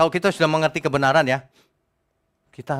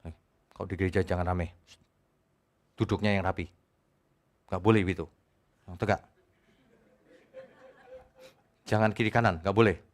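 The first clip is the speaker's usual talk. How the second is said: rigid religious scolder; 5 semitones lower, 4 dB quieter than usual. Retold or imitated. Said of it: "Agamawi kan kaku tuh".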